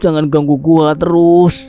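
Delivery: high, slow wail of protest; frightened shout. A narrator's reading. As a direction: shout it out in dread, dragging the words. (teriakan ketakutan)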